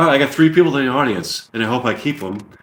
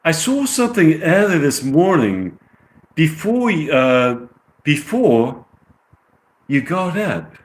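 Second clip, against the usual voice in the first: put-on higher, amateur English accent; British accent; 4 semitones higher than usual. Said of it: "I get the British accent".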